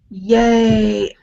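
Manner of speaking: imitating a half-hearted cheer; mock unenthusiastic. Teasing co-host about their lacklustre yay, mock unenthusiastic. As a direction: mimic someone cheering without any enthusiasm. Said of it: "you didn't sound very enthusiastic".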